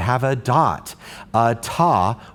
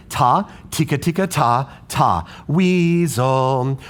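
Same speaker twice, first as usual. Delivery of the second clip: rhythm reading. Shown as a demonstration. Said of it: "Read this rhythm with me".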